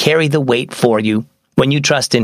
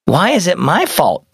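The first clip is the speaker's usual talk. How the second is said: put-on higher, protesting young girl; wronged protest; 5 semitones higher than usual. Mia to Mom after being blamed, wronged protest.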